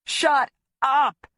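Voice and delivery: shouted command; bellowing. Acted. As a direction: bellow the order. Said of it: "he bellows".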